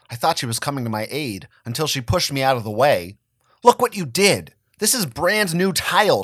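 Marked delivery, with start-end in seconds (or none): 3.6-6.2 high-pitched scolding mother. A narrator's reading. Mother scolding her son over the tile, pitched up. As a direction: tell him off, voice pushed up. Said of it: "she scolded".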